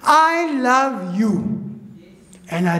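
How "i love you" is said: slow, drawn-out, echoing as if through speakers; booming as if on speakers. Retold or imitated. The heard voice in the shed, slow and echoing. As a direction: let it ring out like a loudspeaker. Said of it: "till I could hear it as it was, uh, on speakers".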